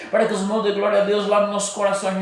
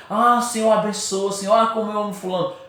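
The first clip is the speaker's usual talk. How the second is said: fake loving prayer; 4 semitones higher than usual. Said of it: "Você".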